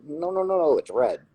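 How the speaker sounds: high, whiny contrary no no no; mock the stubborn naysayer. Mimicking naysayers who deny the obvious, whiny mockery.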